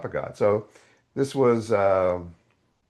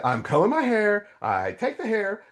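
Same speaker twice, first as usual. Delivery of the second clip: sarcastic; 12 semitones higher than usual. Retold or imitated. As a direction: lay it on thick with sarcasm. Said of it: "I'm getting sarcastic".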